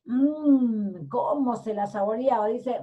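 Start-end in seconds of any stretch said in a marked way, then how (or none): 0.0-1.1 long, lip-smacking relish hum; savouring "mmm". Pretend. Wolf savours eating the girl, relishing hum. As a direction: hum as if tasting a meal. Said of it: "Relambiéndose".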